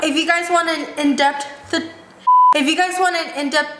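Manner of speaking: words slurred around braces; struggling to speak through braces; talking with braces. Real, not acted. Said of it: "it's so hard to talk with braces".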